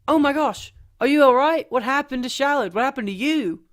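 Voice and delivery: high, loud, urgent questions; alarmed concern. Acted. Finding Shallard's mum crying outside, alarmed. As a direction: exclaim in acted shock and worry. Acted reaction to crying mother.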